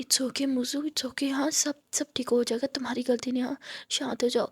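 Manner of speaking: put-on soft, tender soothing to a sick girl; calm her gently, almost whispering; lovingly. Aadiya soothes vomiting Muskaan, tender soft voice. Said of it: "वो बहुत प्यार से".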